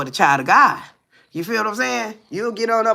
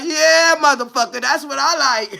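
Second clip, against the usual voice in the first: hammed-up relish; mock gleeful taunt; 7 semitones higher than usual. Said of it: "you like".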